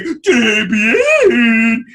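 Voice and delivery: high, loud sing-out; floaty French chef. Retold or imitated. Co-host imitates the French chef coming out, high floaty cry. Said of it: "floaty and says random French".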